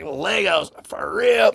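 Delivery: imitating incredulity, rising on the second phrase; mock disbelief. Girl hearing about the exclusive Legos, mock disbelief. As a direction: act like you can't believe what you heard. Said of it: "she can't believe it".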